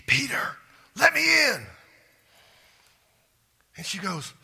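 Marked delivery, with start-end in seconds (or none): 0.1-1.6 high, loud plea to be let in; urgent plea. Retold or imitated. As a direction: call out high and loud, desperate. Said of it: "Peter goes".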